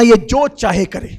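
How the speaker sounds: loud and firm, at normal pitch; the Prophet commanding Umar, loud and firm; loud emphatic order. Acted. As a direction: lay the order down forcefully. Prophet defends Abdullah, repeated line.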